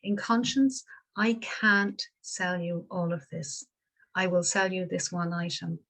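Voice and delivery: a shopkeeper calmly calming a frantic mother; calm and gentle. Retold or imitated. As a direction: settle her down gently. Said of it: "very calmly, very gently, and very quietly said".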